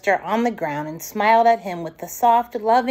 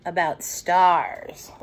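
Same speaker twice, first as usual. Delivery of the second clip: slow gentle answer; 4 semitones lower, much slower than usual. Acted. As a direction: let it linger tenderly. Mother answers softly.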